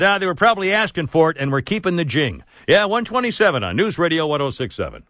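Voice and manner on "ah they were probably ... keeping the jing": mock spokesman. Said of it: "a spokesman ... said".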